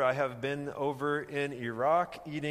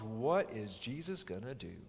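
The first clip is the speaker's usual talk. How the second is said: hushed suspense; 7 semitones lower, 7 dB quieter than usual. Real, not acted. Preacher poses the suspense question.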